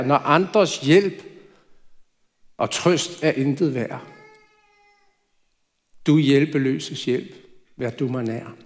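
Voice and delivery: slow, tender recitation of the hymn; hymn line recited. Retold or imitated. Preacher recites the hymn Johnny prayed, slow and tender. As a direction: speak the hymn verse slowly like a prayer. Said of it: "hun tit bad eller sang".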